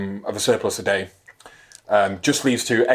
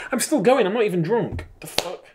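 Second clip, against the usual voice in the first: laughing at himself; 10 semitones higher than usual. Real, not acted.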